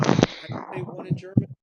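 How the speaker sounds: high, fast mock question; silly high voice. Commentator asking the co-host a German word, squeaky. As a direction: ask it in a put-on squeaky voice.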